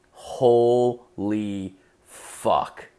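drawn out very slowly, syllable by syllable; stunned. Retold or imitated. Son stunned by mom's sixties story, slow disbelief.

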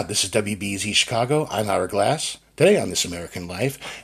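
a hint of a mellow radio anchor, dropping the pitch; Ira Glass impression. Coach showing how Ira Glass speaks, lightly imitated radio voice. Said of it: "Now, how does Ira Glass speak?".

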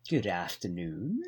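lightly voiced stuffy posh gent; a hint of a posh old gentleman; posh man. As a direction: play a prim upper-class record boss. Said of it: "Giles is a posh man".

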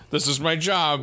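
lightly imitating a bored duty read; mock dutiful. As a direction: say it like a chore. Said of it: "you're reading it like".

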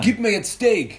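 pushy little demand; rude squirrel voice. Acted.

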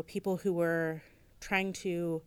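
slow, dry sarcasm; sarcastic. Real, not acted. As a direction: let the irony drip slowly. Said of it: "I hope people can hear the sarcasm in my voice".

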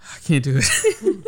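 very high, slow tearful squeak; hammed-up sobby whine, half laughing; mock crying. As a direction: imitate someone weeping and giving up. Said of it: "She was just crying".

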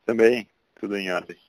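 phone line voice; thin voice through a phone call; over the phone. Real, not acted. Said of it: "eu vou ligar aqui pro André".

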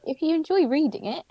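just-woke-up croaky voice; morning voice. Real, not acted. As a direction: voice cracking all over the place. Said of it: "my voice is all over the place".

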